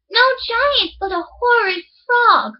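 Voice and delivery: put-on high, alarmed girl's voice; high frightened princess.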